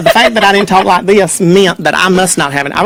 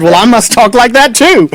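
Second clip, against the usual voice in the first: imitating Raleigh accent; 5 semitones higher than usual. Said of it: "and they all speak like this".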